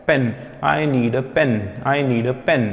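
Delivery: slow, careful pen with a short e; pen said slowly. Shown as a demonstration. Teacher models pen slowly for students to repeat. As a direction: spell out pen for the class to repeat. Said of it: "आप repeat करें मेरे साथ".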